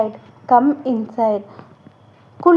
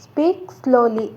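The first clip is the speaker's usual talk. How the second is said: said slowly; 3 dB quieter, slower than usual. Shown as a demonstration. Teacher repeating the phrase for learners, slowly. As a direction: stretch Speak slowly out, word by word. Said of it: "ನಿಧಾನವಾಗಿ ಮಾತನಾಡು".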